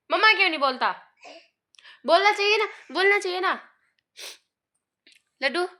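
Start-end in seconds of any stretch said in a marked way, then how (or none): 0.1-3.6 high, louder pleading sing-song; high doting nudge. Real, not acted. Coaxing baby to say mamma.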